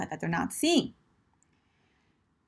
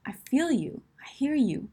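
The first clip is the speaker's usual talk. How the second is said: higher-pitched, sympathetic understanding; empathy; 4 semitones higher, 3 dB quieter, slower than usual. Shown as a demonstration. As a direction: show them you feel for them.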